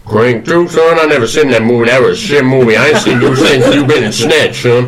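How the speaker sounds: lightly voiced Southern gentleman; Colonel Sanders. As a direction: try on a folksy Kentucky colonel. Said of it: "who is Colonel Sanders".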